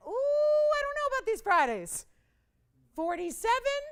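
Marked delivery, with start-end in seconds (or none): 0.1-2.0 doubtful sigh. Retold or imitated. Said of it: "Sometimes you gotta wonder".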